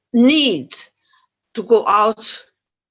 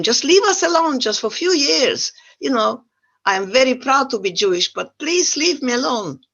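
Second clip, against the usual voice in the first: higher-pitched, wry plea to be left alone; comic, exasperated begging; mock pleading prayer; 6 semitones higher than usual. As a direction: plead as if bargaining with heaven. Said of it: "my prayer is".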